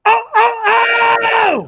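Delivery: high, loud shrieking "oh"; Sam Kinison scream. Shown as a demonstration. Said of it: "Do your Sam Kinison impression real quick".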